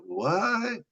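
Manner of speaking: high, startled what from the crew; mock the crew's baffled reaction; stunned what. Firefighters reacting to his detailed recall, high and startled.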